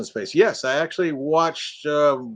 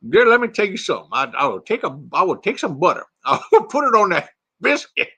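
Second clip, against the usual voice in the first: put-on Texas accent; 5 semitones higher than usual. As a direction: savour it in a playful Texas accent. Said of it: "I can do a Texas accent".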